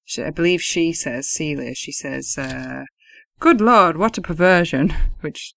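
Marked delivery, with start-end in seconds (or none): 3.4-4.9 louder, higher hammed-up British accent; a prim British lady, shocked; mock-shocked posh British exclamation. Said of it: "in a very British accent".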